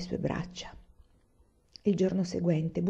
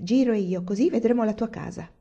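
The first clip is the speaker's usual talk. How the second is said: cheerful; 4 semitones higher, 3 dB louder than usual. Acted. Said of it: "esclamò allegra".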